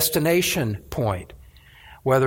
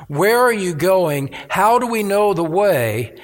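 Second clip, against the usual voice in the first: mildly urgent questioning, a little raised; desperate urgency; 2 semitones higher than usual. Acted. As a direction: ask with a touch of desperate need. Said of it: "there's that desperate urgency".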